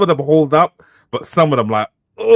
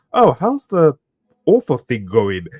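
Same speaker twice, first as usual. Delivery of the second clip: mild condescending relative. Retold or imitated. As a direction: ask it with a faint sneer.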